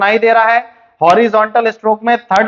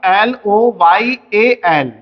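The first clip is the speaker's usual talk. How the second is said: spelling out letters; much slower than usual. Shown as a demonstration. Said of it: "अगर मैं आपसे बोलता हूं".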